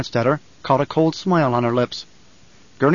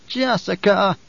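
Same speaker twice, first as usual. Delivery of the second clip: put-on high, strained old woman's call; whispered, stunned old woman; 6 semitones higher, slower than usual. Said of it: "she whispered".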